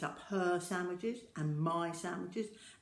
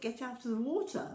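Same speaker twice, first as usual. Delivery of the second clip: higher, firm call; 6 semitones higher than usual. Acted. Sister ordering child out.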